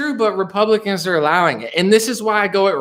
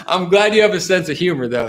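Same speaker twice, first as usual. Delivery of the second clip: laughing. Real, not acted. Streamer glad a viewer took the joke, laughing. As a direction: laugh breaking in at the start. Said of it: "I'm laughing".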